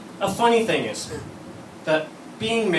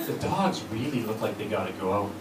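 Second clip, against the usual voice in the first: mild hinting wife; 7 semitones lower, 6 dB quieter than usual. Retold or imitated. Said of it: "my wife says to me".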